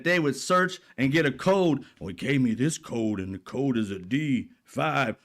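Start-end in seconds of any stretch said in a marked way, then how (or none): 2.0-5.2 a hint of a dopey conspiracy fan; mocking MAGA believers reading out codes. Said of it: "talking about some scary creature".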